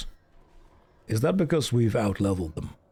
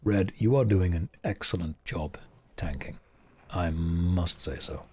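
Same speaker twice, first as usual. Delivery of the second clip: very deep voice. Shown as a demonstration. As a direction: drop into your deepest register. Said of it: "the balls that have dropped to get this voice".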